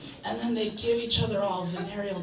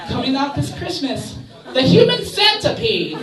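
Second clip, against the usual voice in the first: trailer announcer; 4 semitones higher, 7 dB louder than usual. Pretend.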